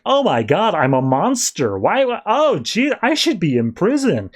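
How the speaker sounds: hammed-up dismay at his own past; mock panic. Clayface reading his own history, mock horror.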